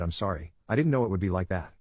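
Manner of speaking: flat, lightly voiced monotone. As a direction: say it dazed and toneless. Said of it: "In a monotone voice she said".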